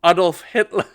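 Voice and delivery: laughing schoolkid heckle; mock loud heckle. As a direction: call it out like a cheeky kid. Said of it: "one of them just went".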